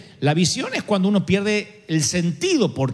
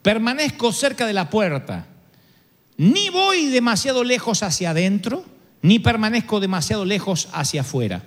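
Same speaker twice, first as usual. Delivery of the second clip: poem recital; 5 semitones higher than usual. Acted. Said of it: "decía más o menos así".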